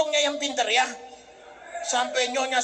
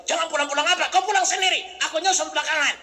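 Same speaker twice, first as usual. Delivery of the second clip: mock macho retort; tough man; 3 semitones higher, faster than usual. Husband refusing his wife, mild mock tough talk. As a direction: brush her off like a tough guy. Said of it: "Tuh, itu laki-laki".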